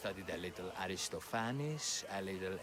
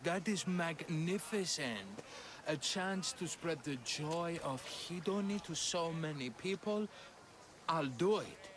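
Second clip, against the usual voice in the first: excited; 6 semitones higher than usual. Acted. Brainwashed follower thrilled by offer.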